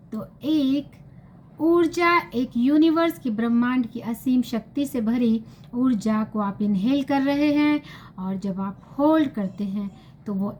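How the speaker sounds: measured guided-meditation voice with pauses between phrases; lightly soothing meditation delivery. Acted. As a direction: guide listeners gently through each step, pausing often.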